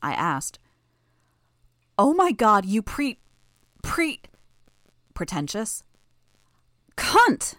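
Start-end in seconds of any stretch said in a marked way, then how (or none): 2.0-5.8 sputtering anger. Acted. Sophia sputtering in contempt. 7.0-7.5 snarling. Acted. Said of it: "Sophia snarled the words".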